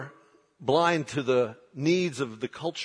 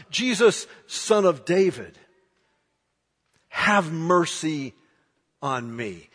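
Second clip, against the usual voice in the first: starts as a raised call, fades into a plea; pleading cry. Acted. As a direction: beg him, trailing off on the last words. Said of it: "begins to cry out".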